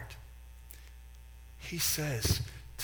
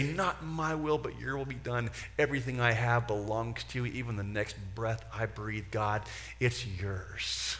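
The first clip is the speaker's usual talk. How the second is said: surrendering prayer. Shown as a demonstration.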